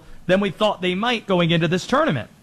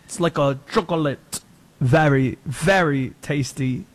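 put-on French accent; 4 semitones lower than usual. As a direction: stretch the very, very like a bad Frenchman. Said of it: "It's pretty bad".

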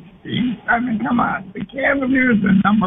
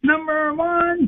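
drawn-out, higher "Number one."; slow emphatic; 6 semitones higher, slower than usual. Shown as a demonstration. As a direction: stretch out "Number one." slowly and proudly. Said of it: "You gotta say it the right way".

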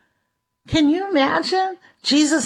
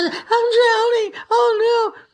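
high, crying panic; high tearful cry for help; Peter drowning; 10 semitones higher than usual. Retold or imitated. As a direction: wail it like you're going under. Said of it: "and I".

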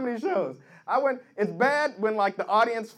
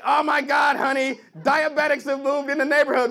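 alarmed neighbor; 3 semitones higher, 4 dB louder than usual. Acted. Alarmed neighbor tells spouse.

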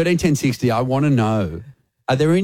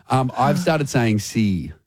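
normal talking voice

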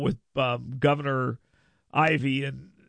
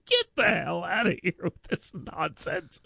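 laughing retort; 3 semitones higher, 3 dB quieter than usual. Retold or imitated. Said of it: "I said to him".

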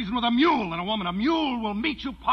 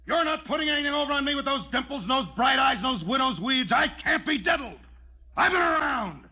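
higher, shouting through the house; angry shout; 4 semitones higher than usual. Acted. Rancher shouts at the widow who walked out, angry yelling. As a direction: yell after her, wherever she is.

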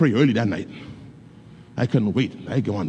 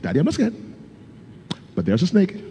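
put-on much higher, rising little girl's voice; voicing young daughter; 8 semitones higher, faster than usual. Father voicing his daughter reporting the snake, much higher. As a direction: brave but worried child.

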